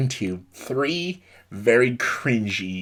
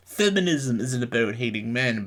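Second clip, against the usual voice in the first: mocking quote. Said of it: "her whole shtick was like".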